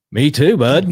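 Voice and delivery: retold relief. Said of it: "And I'm like".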